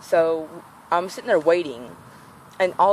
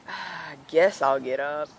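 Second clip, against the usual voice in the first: lazy reluctance; slower than usual. Retold or imitated. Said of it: "I take my dear time getting up".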